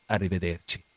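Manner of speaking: low, quiet goodbye; soft farewell. Acted. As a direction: answer the goodbye softly and low. Answering goodbye, lower and softer.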